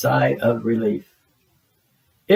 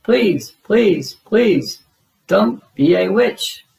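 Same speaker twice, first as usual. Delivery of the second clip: higher, louder scared begging; frightened pleading; 8 semitones higher, 4 dB louder, much slower than usual. Acted. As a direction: beg the witch away. Elmo pleading in fear.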